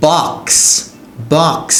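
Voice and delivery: বক্স with a clearly released ks ending; final sound demonstrated. Shown as a demonstration. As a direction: let the hissing s at the end of বক্স ring out. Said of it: "এরকম একটা sound দিয়ে শেষ হয়".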